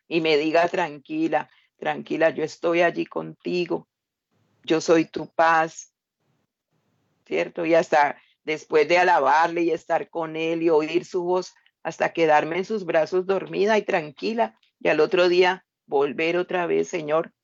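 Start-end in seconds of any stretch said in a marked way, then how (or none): 0.7-5.9 tender comfort. Acted. Loving father God calming his daughter, tender. 16.9-17.3 soft longing. Acted. Believer turning to the Lord next morning, soft.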